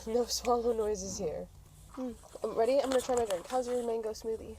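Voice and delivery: ordinary talk, nothing marked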